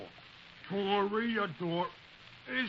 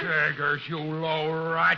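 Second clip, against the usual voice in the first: angry; 3 semitones lower, 6 dB louder, slower than usual. Acted. Wilmer confronts the crook Chiggers.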